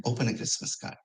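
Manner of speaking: hushed, unvoiced plea to wake; night-time whisper in the kitchen; quiet whisper. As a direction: whisper it softly in the dark.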